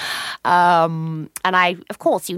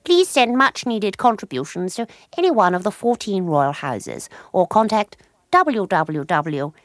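reading from her book; 3 semitones higher than usual. Acted. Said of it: "the book is full of little bits".

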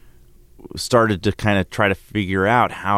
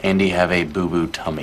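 put-on baby talk. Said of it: "talking baby talk".

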